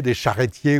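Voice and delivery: "charretiers" said quickly as char-ré-tier; mispronunciation demo. Shown as a demonstration. Teacher dismissing wrong versions, "charretiers" with an é. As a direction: turn the schwa of "charretiers" into é. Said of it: "ou je sais pas quoi".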